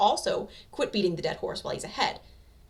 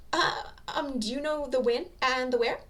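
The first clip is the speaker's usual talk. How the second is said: nervous woman; 7 semitones higher, 5 dB louder than usual. Acted. Nervous lady asks.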